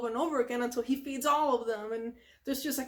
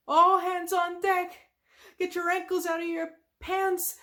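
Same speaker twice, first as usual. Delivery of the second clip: higher-pitched captain calling orders; Mister Krabs; 6 semitones higher, 4 dB louder than usual. Retold or imitated. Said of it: "Mister Krabs is saying".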